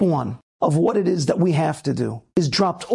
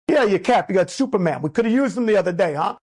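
Italian guy. Retold or imitated. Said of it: "some Italian guy was like".

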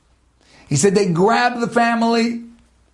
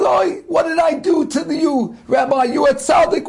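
higher, raised remorseful cry; anguished plea; 5 semitones higher than usual. Acted. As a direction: plead with the dying rabbi, shaken. Murderer pleads with dying rabbi.

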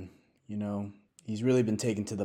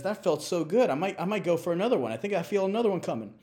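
higher and fast, giddy; mock relieved chicken; 7 semitones higher, faster than usual. Chicken after laying an egg, giddy and fast. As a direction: rush on to the next one.

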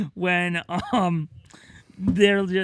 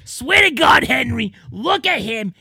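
exasperated mom; 5 semitones higher, 5 dB louder than usual. Retold or imitated. Mom scolding son in cell.

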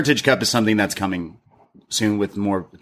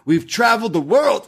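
mock choked-up plea; 11 semitones higher than usual. Host imitating Briggs choking up, hammed-up tearful crack. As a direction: voice cracking high, hammed-up sobbing. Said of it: "as he chokes up".

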